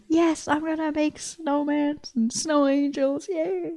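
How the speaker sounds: hammed-up delight at snow; mock excited. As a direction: play it like a thrilled kid. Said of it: "And J P is like".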